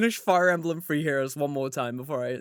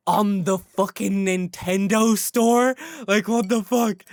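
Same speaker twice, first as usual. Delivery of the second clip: indignant; 2 semitones higher, 6 dB louder, slower than usual. Real, not acted. Indignant rant about prices.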